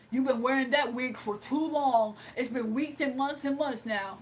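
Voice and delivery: mock winded heckler; out-of-breath caller. Streamer mimics the caller complaining about her wig, mock out-of-breath. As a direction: imitate a nagging caller, lightly voiced. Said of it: "That's exactly how he talks".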